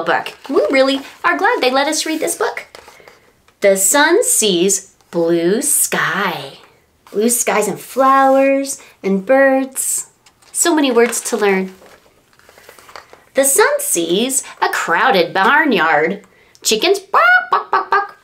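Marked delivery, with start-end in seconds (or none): 3.6-16.2 slow, lilting storybook read; reading to children. Acted. Teacher reading a picture book to toddlers, lilting and slow. 16.6-18.2 high, playful barking sound; playful animal noise. Pretend. Teacher playing the animals for toddlers, high and playful.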